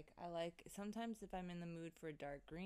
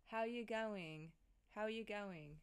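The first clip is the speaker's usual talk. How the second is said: slow, tentative Australian accent; attempted Australian accent; slower than usual. Shown as a demonstration. Host testing the phrase for listeners, attempted Australian accent. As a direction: try out an Australian accent, drawing it out. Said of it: "I wish I had an Australian accent".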